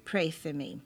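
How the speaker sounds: reverent prayer reading. Acted. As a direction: read it like a devout prayer. Reads a prayer aloud.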